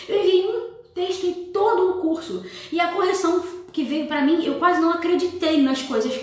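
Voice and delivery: high-pitched mock-outraged student; indignant student complaint. Student protesting to the teacher over a correction, indignant. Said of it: "começou assim".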